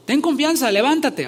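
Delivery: high, loud call across the crowd. A narrator's reading. Crowd calling the blind man to Jesus, loud call. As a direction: call him over to Jesus. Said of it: "llamaron al ciego diciéndole".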